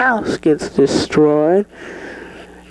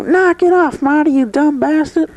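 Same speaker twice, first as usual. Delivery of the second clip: knock it off; 9 semitones higher than usual. Acted. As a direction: cut the crew's laughing short. Joe snaps at laughing crew.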